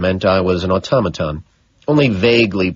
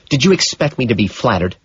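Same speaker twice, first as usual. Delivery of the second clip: bitter; 4 semitones higher than usual. Acted. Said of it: "she spits out bitterly".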